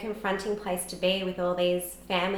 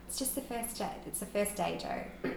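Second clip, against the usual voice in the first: soothing stranger; 2 semitones higher, 6 dB quieter than usual. Retold or imitated. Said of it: "she said to me".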